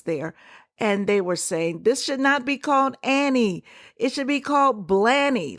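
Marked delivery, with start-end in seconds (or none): 1.8-5.6 mock indignation. Voicing outraged Twitter posts.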